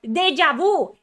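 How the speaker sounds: loud exasperated exclamation; ranting breakdown. Real, not acted. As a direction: cry out DEJA VU loudly. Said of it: "I'm having a fucking mental breakdown".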